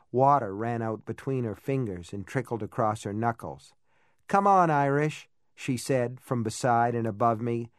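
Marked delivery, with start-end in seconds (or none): 4.3-5.3 louder, higher coaxing call; urging call. A narrator's reading. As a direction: coax him insistently. Jo urging him.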